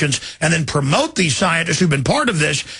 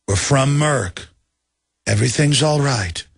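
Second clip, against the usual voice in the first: lower, soothing mock-official voice; nice old man; 3 semitones lower than usual. Host mocks a gentle government spokesman. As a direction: lull them like a kindly official. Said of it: "Nice old man, nice old suit".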